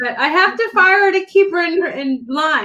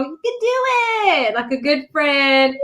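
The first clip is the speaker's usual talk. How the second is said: imitated calm friend. Imitating Sandy talking her down from nerves, calm encouragement. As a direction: coo it like a reassuring friend. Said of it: "talking all calm".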